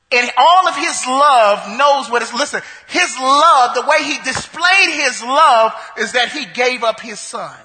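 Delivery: fervent pulpit emphasis; preaching build. Acted. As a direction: press it home to the congregation.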